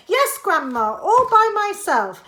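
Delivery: put-on high, loud little boy voice; high loud boy's voice; proud boy. A narrator's reading. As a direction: call up proudly to Grandma. George answers Grandma proudly.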